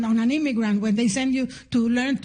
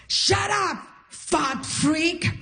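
sharp higher mock yell; retold yell; 4 semitones higher, much slower than usual. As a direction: bark it like a rude heckler. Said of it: "The guy yells at me".

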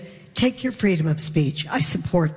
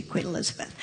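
whispered; 10 dB quieter, faster than usual. Acted. Whispered punchline aside.

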